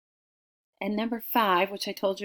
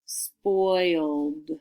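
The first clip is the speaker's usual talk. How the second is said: drawn-out dictation; much slower than usual. Shown as a demonstration. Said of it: "Repeat it out loud at home".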